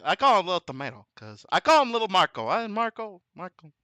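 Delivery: lightly voiced politician name-calling; a hint of mock president; Trump. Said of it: "it helps if I do that".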